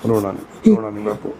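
very low, soothing murmur; real low-pitched consoling; tender hushing. Real, not acted. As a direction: hush a sobbing father figure gently. Hushing a sobbing old man.

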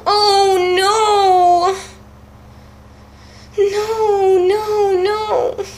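crying. Real, not acted. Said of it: "I'm crying".

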